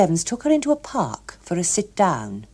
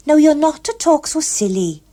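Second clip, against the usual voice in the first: mild scolding; 10 semitones higher, 6 dB louder than usual. A narrator's reading. Gloria scolding him.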